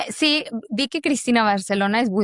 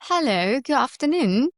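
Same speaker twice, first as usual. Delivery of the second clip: British accent; 3 semitones higher than usual. Shown as a demonstration. Actor showing off British to the host, polite British accent. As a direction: play a courteous British receptionist. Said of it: "just get me into the".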